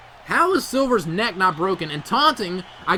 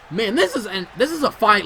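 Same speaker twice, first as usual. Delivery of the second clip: laughing; 4 semitones higher, 5 dB louder than usual. Real, not acted. Laughing at brawl.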